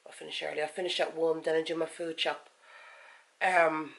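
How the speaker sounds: talking around a mint; sucking on a mint. Real, not acted. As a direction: mint in the mouth. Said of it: "sorry, I'm sucking on a mint".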